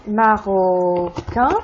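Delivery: Marocain drawn out slowly with a rise; slow model pronunciation. Shown as a demonstration. Teacher modeling Marocain slowly before correcting herself. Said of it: "Oh, no, in French you need an A".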